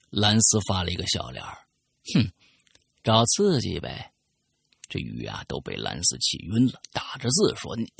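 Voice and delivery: reading a listener's letter aloud, storyteller style; story narration. Acted. Host reading a listener's letter on air, storytelling narration.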